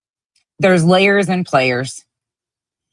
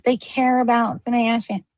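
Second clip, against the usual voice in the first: higher mocking voice for their claim; mocking quote; 7 semitones higher, 3 dB quieter than usual. Streamer mocking the crew's claim, sarcastic. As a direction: parrot their line back with scorn. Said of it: "looks at you in the face and says".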